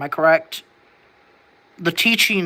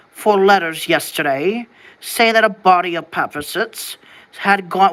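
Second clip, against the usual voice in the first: lightly voiced colonial newspaper reader; seventeen-hundreds Bostonian. Shown as a demonstration. Testing how colonists read news aloud, lightly put-on colonial voice. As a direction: try out an old-time Boston reading voice. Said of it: "would I be speaking more like that?".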